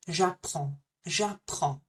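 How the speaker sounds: J'apprends said like "Japan" and "prawn" run together; Japan and prawn squished. Shown as a demonstration. Teacher showing learners how to squash J'apprends together, squished pronunciation. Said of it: "Squish them together".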